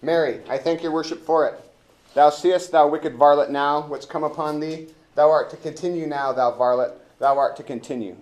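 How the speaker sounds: loud, high, triumphant Elbow; hammed-up pompous officer gloating. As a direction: crow over the rogue in court. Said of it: "I wanna be elbow".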